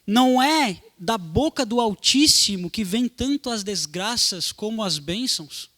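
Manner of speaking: slow, emphatic Bible reading; scripture reading. Acted. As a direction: read out the verse in measured, weighty phrases. Reads a Bible verse aloud.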